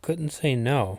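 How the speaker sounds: plain reading voice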